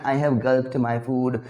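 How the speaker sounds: slow, careful model sentence; slow demo sentence. Shown as a demonstration. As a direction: spell out each word slowly. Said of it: "मैं तो गल्प ही लगाता हूँ".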